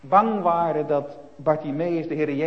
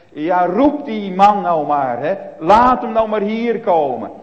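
calling out; 5 semitones higher, 11 dB louder than usual. Retold or imitated. Jezus laat de man roepen.

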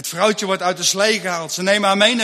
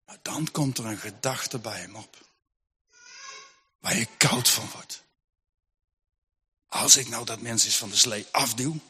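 dark whispered thought; 10 semitones lower, 8 dB quieter than usual. Acted. Dark temptation in Lars's mind.

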